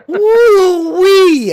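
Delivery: very high, drawn-out whoop; laughing, squealed Southern whoop; mock redneck whoop. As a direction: imitate a hillbilly holler, stretched out. Mocking the redneck whoop back.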